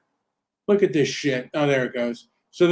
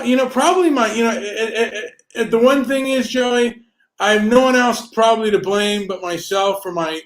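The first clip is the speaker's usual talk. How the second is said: higher, raised voice, self-blaming heat; angry rant; 4 semitones higher than usual. Real, not acted. Asked by Joey what he's angry about, heated self-blame. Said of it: "What are you angry about?".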